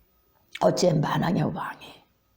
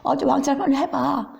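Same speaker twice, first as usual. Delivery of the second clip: mocking taunt; 4 semitones higher than usual. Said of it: "그 앞에서 조롱하죠".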